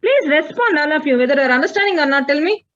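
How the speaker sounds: high, fast, insistent appeal; urgent pleading. Real, not acted. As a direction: rush the plea, almost begging. Teacher pleads again, no answer.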